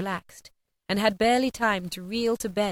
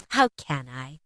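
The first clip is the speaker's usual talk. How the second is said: laughing; slower than usual. A narrator's reading. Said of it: "laughing as he laughed".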